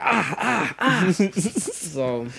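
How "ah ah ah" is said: mock cries of pain, high and punchy; repeated high "ah" in mock pain; imitated pained cries. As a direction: act out being hurt with short yelps. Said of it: "you be hurting back, you be like".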